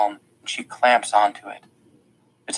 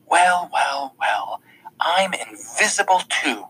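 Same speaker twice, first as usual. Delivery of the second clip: bitter sarcasm; 6 semitones higher, slower than usual. A narrator's reading. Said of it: "her voice dripping bitterness".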